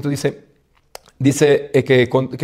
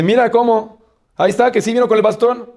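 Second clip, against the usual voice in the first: triumphant; 8 semitones higher than usual. Retold or imitated. King shows courtiers the cane, triumphant and high. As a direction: crow over the proof.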